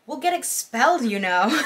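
lightly put-on, hammed-up British accent; bad British accent. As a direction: try a British accent, badly. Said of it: "really bad British accent".

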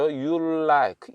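"You like" said slowly as "you'll-like"; "You like" with the L held across both words; linked L. Shown as a demonstration. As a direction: double the L so "You like" starts as "you'll". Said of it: "L 발음이 앞에 들어가니까 you'll 그러는 거죠".

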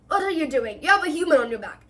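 outraged centaur thundering at a friend; thundering rebuke. Acted. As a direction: scold him furiously for his shame. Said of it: "Bane thundered".

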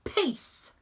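loud, high plea for peace; crying out. A narrator's reading. Brush calling the quarrelling friends to stop, loudly. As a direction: call out to stop the fight. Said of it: "cries Brush".

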